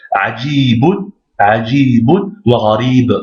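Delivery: "Ajibun" with a long held i; careful Arabic reading, lingering on the i of "gharib"; prolonged i. Shown as a demonstration. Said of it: "c'est la prolongation du i".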